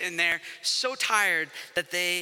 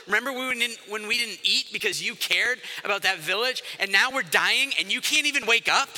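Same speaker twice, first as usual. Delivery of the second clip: pleading accusation. Acted. Frightened disciple to sleeping Jesus in the storm, plea building to accusation.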